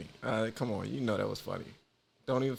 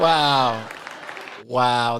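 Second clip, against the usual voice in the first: stunned wow; 8 dB louder than usual. Real, not acted. Reacting to the panties prank.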